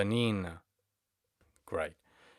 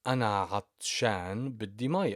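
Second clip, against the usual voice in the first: acted quote; 3 semitones higher, 4 dB louder than usual. Shown as a demonstration. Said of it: "So you could say".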